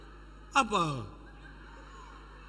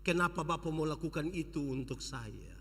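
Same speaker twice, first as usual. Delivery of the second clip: tearful plea; 3 semitones lower, 3 dB quieter than usual. Acted.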